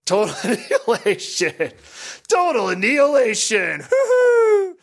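high, giddy pinball callout ending in a hoot; over-the-top shrieked callout; imitated game callout. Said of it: "with all its great call-outs".

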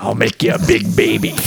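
lightly put-on husky smoker voice; joking impression of a raspy matriarch; Harvey Fierstein. Podcaster plays movie mom threatening a baby, husky impression. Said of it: "She talks like Harvey Fierstein".

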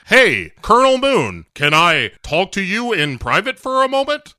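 hint of a hammy henchman; Zhao. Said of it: "Zal is like".

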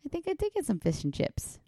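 high-pitched bad Cockney reply; attempted Cockney accent. Wife playing along about fish and chips, mock Cockney accent. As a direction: answer in a put-on Cockney voice. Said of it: "Cockney accent".

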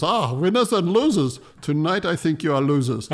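put-on teasing drunk filmmakers, Scandinavian buyer laughing; Scandinavian lady buyer. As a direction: tease them like an amused Scandinavian buyer.

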